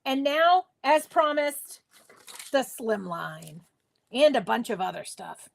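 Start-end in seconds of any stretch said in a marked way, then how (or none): 2.5-5.5 mock announcer tone, slightly lower; silly put-on voice. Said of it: "I don't know why I'm doing this voice".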